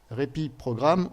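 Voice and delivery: English read with a real French accent. Real, not acted. Presenter reading a firewall alert aloud to viewers, French-accented English. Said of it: "désolé de mon accent anglais".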